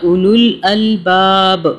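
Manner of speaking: measured melodic tilawat; Quran recitation. Acted. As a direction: recite the verse in steady chanted tajweed. (तिलावत के अंदाज़ में ठहरकर पढ़ना)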